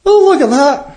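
high, sweet, doting voice; Irish drunk. Acted. Irish drunk cooing tenderly at a fly in his beer, high and sweet. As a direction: coo at the fly like a little boy. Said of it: "looks at the beer and goes".

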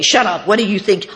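loud, teasing put-down; mock scolding. AA sisters gigging the speaker, mock scolding. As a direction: playfully tell off a friend.

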